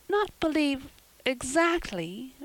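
put-on high, slow, hesitant girl; falter, breaking the phrase up. A narrator's reading. Anne backing down before Marilla, faltering. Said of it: "faltered Anne".

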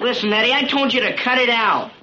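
fed up, warn him to stop; annoyed warning. Acted. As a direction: tell off a teasing friend. Warns teasing friend to stop.

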